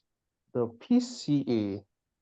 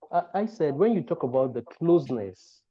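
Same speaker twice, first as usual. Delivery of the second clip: repeating it a bit louder to be heard. Real, not acted. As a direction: say it again, clearer and louder.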